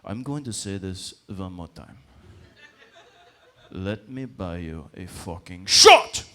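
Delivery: slow, low menace, erupting on the last word; deliberate warning that bursts into a shout; insistent drunk threat. Retold or imitated. Persistent bar patron demanding to buy a shot, slow threat rising to a yell. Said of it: "he was persistent".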